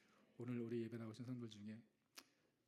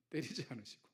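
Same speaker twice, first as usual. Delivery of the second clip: normal talking voice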